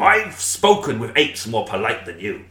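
slow pirate voice. Acted. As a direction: drawl it like a pirate. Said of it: "'cause I did the pirate voice".

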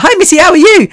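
high, loud, cheery mock greeting from Cornelius; a spiritual teacher greeting Missy, high and loud; imitating Cornelius. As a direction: bounce the greeting up like a bright host. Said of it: "he's like".

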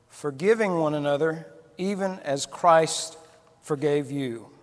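measured, earnest scripture reading. Acted. Preacher reading Ephesians to the congregation, solemn. Reads scripture passage aloud.

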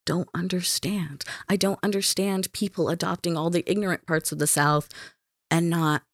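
soft, breathy whisper of disbelief. Real, not acted. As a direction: drop to a whisper. Quiet dismay at racism.

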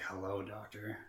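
soft, cool hint of a demon; calm demonic voice. Demon greeting the doctor on tape, lightly voiced calm menace. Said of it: "very cool, calm, collect, deep, demonic".

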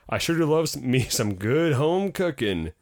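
lightly hammed-up southern gentleman; mock southern farmer. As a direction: relish it with a touch of southern twang. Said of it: "a very southern looking gentleman".

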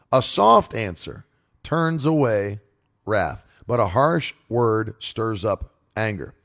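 slow, deliberate repeat of the verse; scripture reading. Acted. Preacher repeating the proverb for emphasis, slow. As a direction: lean on "harsh" as he repeats it.

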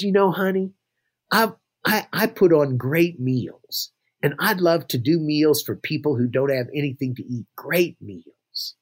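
lightly voiced New Orleans lady calling someone honey; a hint of a New Orleans accent, unhurried. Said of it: "in her New Orleans accent".

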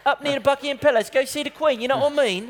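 put-on quick, light English accent; chirpy tour guide in an English accent; British accent. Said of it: "Un bon accent anglais".

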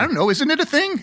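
perturbed dismissal. Retold or imitated. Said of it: "They're like".

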